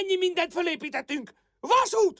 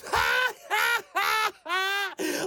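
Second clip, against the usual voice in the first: gloating laugh. Acted. Rival gloats after her slogan.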